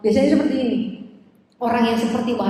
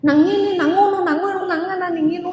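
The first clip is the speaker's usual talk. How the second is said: a child's higher Javanese lilt, lightly imitated; funny Javanese child; 6 semitones higher than usual. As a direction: mimic a little village kid correcting the teacher in Javanese. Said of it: "cara ngomongnya saya nggak bisa niru". (tiruan ringan logat Jawa anak kecil yang lucu)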